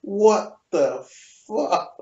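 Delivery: stunned, broken-up mimicked disbelief; mock gobsmacked. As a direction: let each word drop out in mock shock. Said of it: "gobsmacked, mouth wide open".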